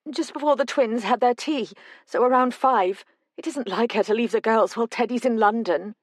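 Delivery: a frightened mother spilling out her worry; a hint of a tearful mother; distressed mother. Mother answers Tom.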